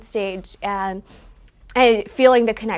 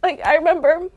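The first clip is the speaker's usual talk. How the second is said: higher, tearful voice fighting to keep talking; choked up; 6 semitones higher, 6 dB louder than usual. Real, not acted. Daughter recalling her mother's sacrifice on stage, choked up. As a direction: push through real tears, with breaks between phrases. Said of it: "I'm getting a little choked up".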